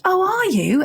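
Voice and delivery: high, lightly voiced mum asking; mum's reply. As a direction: mimic her mum's gentle surprise. Daughter voices her ill mum.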